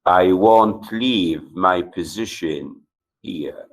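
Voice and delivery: "won't" made the strongest word, then dropping away; emphatic stress on won't. Shown as a demonstration. Teacher repeating the English example, stress on "won't". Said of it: "the speaker stresses the modal auxiliary".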